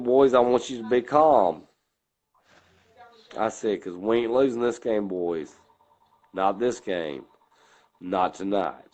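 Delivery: deep low coach voice. Retold or imitated. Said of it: "You go into that deep low".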